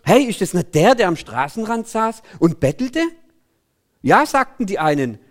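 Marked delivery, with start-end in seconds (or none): 0.0-3.0 a touch of puzzled surprise; mildly astonished question. Acted. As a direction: ask it as if doubting your own eyes. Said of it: "fragten verwundert". (leicht verwunderte Frage)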